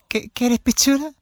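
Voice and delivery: high, slow affected lady's offer; friendly old boss. Retold or imitated. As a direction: repeat the offer slowly, pitched high. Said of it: "hablaba como así". (voz aguda y lenta de vieja ciútica)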